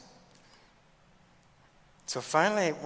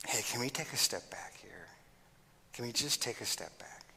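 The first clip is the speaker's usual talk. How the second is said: whispered, calming step back; soft; 8 dB quieter than usual. Shown as a demonstration. Teacher showing how to de-escalate, whispered and soft. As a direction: hush it down to defuse. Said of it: "So we're gonna get soft".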